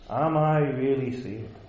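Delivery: "Am I" lifted, falling away through "really saved"; shifted emphasis. Shown as a demonstration. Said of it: "emphasize each word and change your intonation".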